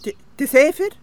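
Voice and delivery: startled stammering question; surprised. Acted. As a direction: catch your breath, stumble on the word. Wife shocked husband is travelling.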